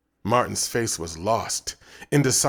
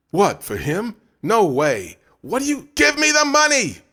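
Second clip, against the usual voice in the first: rising, loud, outraged refusal; angry protest; 12 semitones higher, 6 dB louder than usual. Acted. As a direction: demand the money back, fed up. Boys quarrel over money.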